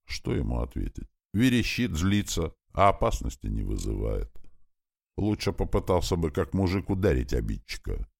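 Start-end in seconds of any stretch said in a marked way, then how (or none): none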